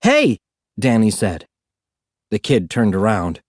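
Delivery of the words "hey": calling out. A narrator's reading. Danny calls out to kid.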